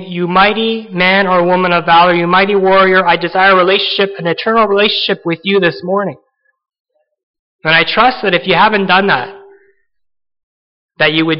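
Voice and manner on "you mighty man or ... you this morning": lightly voiced Lord addressing the congregation; a hint of a divine invitation; the Lord inviting. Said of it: "He's saying".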